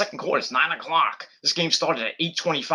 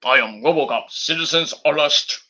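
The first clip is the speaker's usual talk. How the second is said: RoboCop voice; 4 dB louder than usual. Retold or imitated. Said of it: "Sounds like RoboCop almost".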